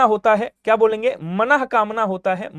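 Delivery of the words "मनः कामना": slow clear split. Shown as a demonstration. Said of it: "मनोकामना नहीं".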